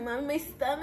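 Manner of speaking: hammed-up tummy-ache moan; mock complaining. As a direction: imitate a bellyache complaint. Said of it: "she was complaining to Mom".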